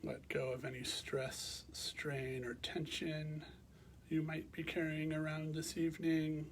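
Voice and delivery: calm, measured meditation guidance with long pauses; guided meditation. Real, not acted. Teacher guiding listeners to bring awareness to the breath, calm meditation voice. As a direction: guide them gently into rest, leaving space between phrases.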